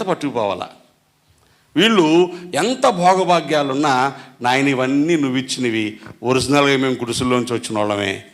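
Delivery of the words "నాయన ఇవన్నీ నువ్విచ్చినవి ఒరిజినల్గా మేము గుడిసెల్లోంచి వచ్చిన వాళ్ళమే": humble thanks. Pretend. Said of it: "అని విధేయత చూపించాల".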